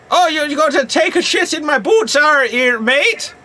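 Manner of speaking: cheeky chimney-sweep accent, hammed up; Dick Van Dyke cockney. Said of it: "Hello, Mary Poppins".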